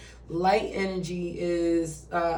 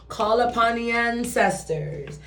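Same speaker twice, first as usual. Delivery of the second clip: light Jamaican lilt; Jamaican accent; 4 semitones higher than usual. Real, not acted. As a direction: slip into a slight Jamaican accent. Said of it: "say it in a Jamaican accent".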